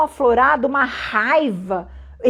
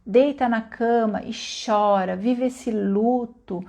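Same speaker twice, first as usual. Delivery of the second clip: acolhimento; 3 semitones lower, 3 dB quieter, much slower than usual. Acted. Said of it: "falar assim".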